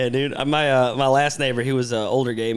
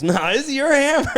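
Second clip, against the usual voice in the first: higher, laughing refusal; laughing insistence; 11 semitones higher than usual. Retold or imitated. Worker refusing to take the hammer back, in a higher laughing voice. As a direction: insist through laughter, pitched up. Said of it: "And he goes".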